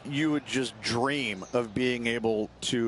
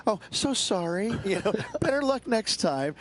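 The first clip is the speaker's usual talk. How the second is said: higher-pitched, mock-sorry jab with a laugh; mock sarcastic apology; 7 semitones higher than usual. Commentator imitating a fiery golfer to a co-host, mock sarcastic. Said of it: "she says it sarcastically".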